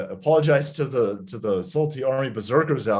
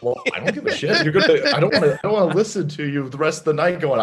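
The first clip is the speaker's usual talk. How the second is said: higher, quick retort through laughter; laughing mock impatience; mock exasperated wife; 3 semitones higher, faster than usual. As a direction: imitate a wife brushing off the nerves. Wife's dismissive retort, retold.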